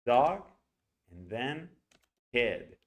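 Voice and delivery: put-on "dog" and "kid" each given a long, stressed vowel; huge vowels. Shown as a demonstration. Teacher isolating name's vowels, big stress on "dog" and "kid". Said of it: "Those two vowels are huge".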